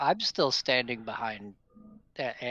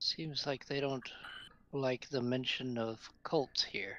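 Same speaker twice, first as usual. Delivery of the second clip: soft, half-whispered aside; 6 dB quieter than usual. Speaking in character to a companion about cults: whispering. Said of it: "I'm kind of whispering to Meryl".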